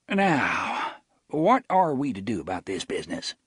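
sheriff turns serious; grave sheriff. Acted. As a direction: weigh each word gravely. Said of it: "returned to his former gravity".

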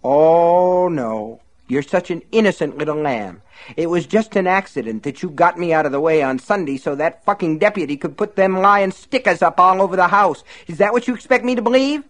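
high mocking sarcastic voice; sneering accusation. Buster accuses Myrtle of betraying him, high sarcastic sneer. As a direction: taunt her with sarcasm.

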